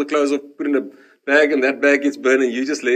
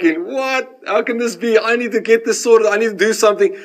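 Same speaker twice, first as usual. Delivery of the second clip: higher-pitched acted disbelief; retold alarm, pitched up; incredulous panic; 4 semitones higher than usual. Patient finding nobody answers the emergency button, acted incredulous panic.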